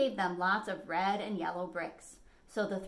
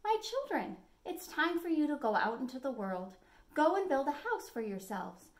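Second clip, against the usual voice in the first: lightly voiced mother wolf, higher at the start; a hint of a gentle mother sending her cubs off; 6 semitones higher than usual. Mother wolf sends her cubs out, lightly voiced. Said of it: "the mother called ... and said".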